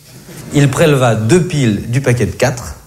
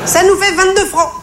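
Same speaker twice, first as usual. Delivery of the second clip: high cashier voice. Retold or imitated.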